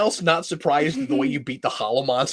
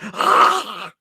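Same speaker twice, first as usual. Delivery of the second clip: high comic cry of someone being throttled; high-pitched hammed-up wail; mock choked cry; 13 semitones higher than usual. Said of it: "And then Saba's like".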